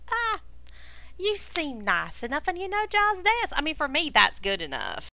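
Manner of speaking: lightly drawled Southern hospitality, lively swoops in pitch; folksy character voice, lilting and lightly put on; folksy, chatty lizard host. Game master plays Crackdust, lizard folk host.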